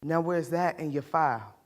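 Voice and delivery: put-on remember the children's lost innocence, quietly pained; understated grief of a mother; grieving mother.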